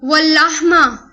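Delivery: واللحما drawn out slowly; slow Arabic recitation. Shown as a demonstration. Teacher to students, slowly pronouncing واللحما. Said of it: "اور گوشت".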